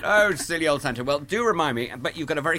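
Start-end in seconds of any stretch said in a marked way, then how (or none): 0.0-1.0 lightly voiced silly Santa. Shown as a demonstration. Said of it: "You love that".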